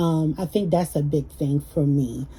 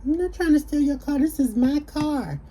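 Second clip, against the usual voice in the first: defensive denial; 9 semitones higher than usual. Retold or imitated. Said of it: "I said".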